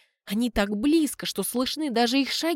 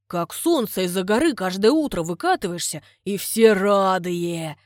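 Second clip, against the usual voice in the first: fumbling compliment; 4 dB louder than usual. Acted. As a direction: stretch out the clumsy compliment. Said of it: "Судорожно подбирает эпитеты".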